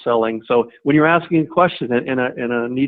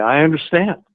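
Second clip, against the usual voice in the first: understanding reply; 3 semitones higher than usual. Shown as a demonstration. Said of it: "it's this".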